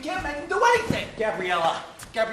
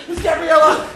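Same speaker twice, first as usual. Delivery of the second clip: loud call, pitched up; 3 semitones higher, 9 dB louder than usual. Acted. Man announcing the guest loudly, calling out. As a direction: call her name across the house.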